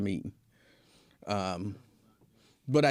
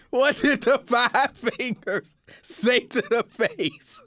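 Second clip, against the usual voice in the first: slow, higher, stretched-out question; slow drawn-out joke; 7 semitones higher, much slower than usual. Retold or imitated. Teasing Lincoln with a slow, higher joke question. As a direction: drag out each word of the setup.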